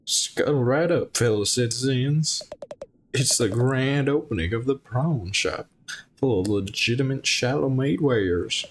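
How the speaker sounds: hint of a shady shark merchant calling out to customers; shark salesman voice. Shark shopkeeper pitching his shop.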